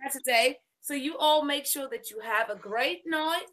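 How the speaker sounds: a lightly voiced elegant lady, unhurried; Lady Elegance voice. Host signs off to stream viewers in a hint of a ladylike voice. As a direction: play a gracious lady bidding the viewers good night, lingering on each wish. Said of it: "in my Lady Elegance voice".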